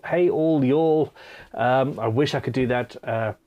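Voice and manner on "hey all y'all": put-on Southern US accent, stretched out slowly and a bit higher, half-joking; drawn-out mock Southern accent. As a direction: lean into the Southern drawl, slow, clumsy but willing. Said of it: "justice in the correct accent".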